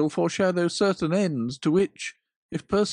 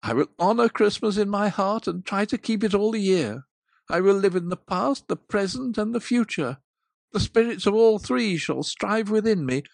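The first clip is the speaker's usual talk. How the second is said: louder, anguished vow; agonized pleading; 5 dB louder than usual. Acted. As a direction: Scrooge swearing to change, in agony. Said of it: "In his agony".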